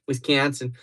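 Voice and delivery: Wisconsin said with flattened "kan" in a Midwest accent; exaggerated Midwestern vowel in Wisconsin; put-on Wisconsin accent. Shown as a demonstration. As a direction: switch to a mock Wisconsin accent. Repeats the name in practised accent.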